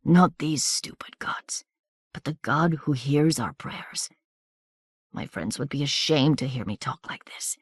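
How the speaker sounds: murmured. A narrator's reading. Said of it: "murmured the corporal".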